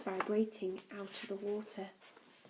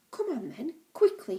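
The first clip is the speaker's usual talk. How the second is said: impatient call; 6 semitones higher, 6 dB louder than usual. Acted. Explorer hurrying the children.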